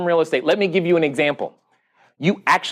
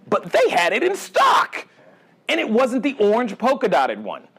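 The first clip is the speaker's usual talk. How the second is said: excited; 4 semitones higher than usual. Real, not acted. Telling the audience the shoe was in stock, excited.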